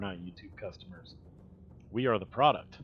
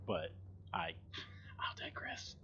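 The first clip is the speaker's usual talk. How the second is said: whispered aside; 5 semitones lower, 13 dB quieter than usual. Real, not acted. Muttered aside.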